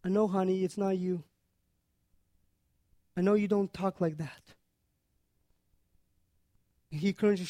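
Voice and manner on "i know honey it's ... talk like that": gracious reassurance. Retold or imitated. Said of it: "challenges her with graciousness".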